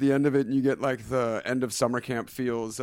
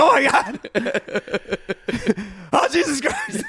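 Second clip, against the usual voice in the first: high, loud panicked yelps; mock panic; 12 semitones higher, 5 dB louder than usual. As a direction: shriek it like sharks hit the cage. Retelling shark attack panic.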